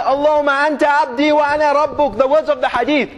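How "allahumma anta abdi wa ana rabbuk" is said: mock overjoyed blurt. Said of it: "He muddles his words and says".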